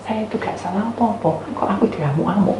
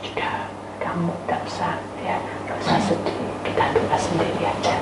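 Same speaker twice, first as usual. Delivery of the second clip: soft, near-whispered reassurance; hushed advice; 7 dB quieter than usual. Retold or imitated. Telling child to pray alone, hushed voice.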